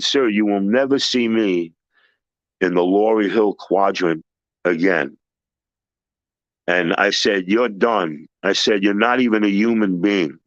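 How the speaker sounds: low, measured telling-off with pauses; stern dismissal. Retold or imitated. Teller retells dismissing the supplier for good, stern and low. Cutting off the supplier in retold confrontation.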